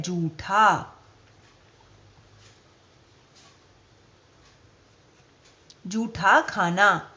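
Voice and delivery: slow careful जूठा; जूठा with plain ज, no aspiration; correct pronunciation. Shown as a demonstration. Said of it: "इसका सही शब्द है".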